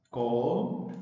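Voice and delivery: "Cólera" slowly split as có-le-ra; "Cólera" in separate, drawn-out syllables; broken into syllables. Shown as a demonstration. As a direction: say "Cólera" syllable by syllable, pausing between each. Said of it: "En sílabas".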